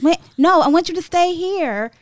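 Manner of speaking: mock pleading. Acting him pleading her stay.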